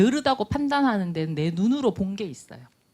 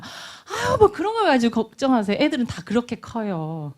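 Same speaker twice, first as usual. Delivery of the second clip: dismissive advice; 3 semitones higher than usual. Acted. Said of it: "이렇게 또 우리가 충고하고 조언하잖아요".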